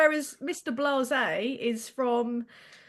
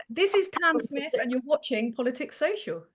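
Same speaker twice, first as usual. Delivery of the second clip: own Essex accent. Shown as a demonstration. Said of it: "let's go for this".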